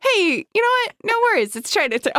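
very high, laughing parody voice; mock movie quote. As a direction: squeak it out as a goofy misquote. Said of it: "quote the end of Chinatown".

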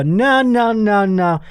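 refusing the phone scammer, amused and emphatic; mock outraged refusal. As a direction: refuse him with wry indignation.

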